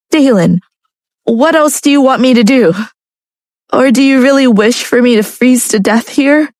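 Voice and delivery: protest, hurt and puzzled; upset young woman. A narrator's reading. Narrator voicing Lucia.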